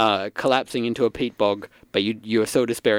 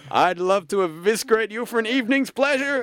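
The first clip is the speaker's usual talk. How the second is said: higher, theatrical yell; 12 semitones higher than usual. Acted. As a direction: throw the threat out with relish. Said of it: "you yell out".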